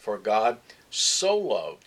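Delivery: slow, weighted "so" before "loved"; stress on SO. Shown as a demonstration. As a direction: lean long on "so". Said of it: "just didn't love".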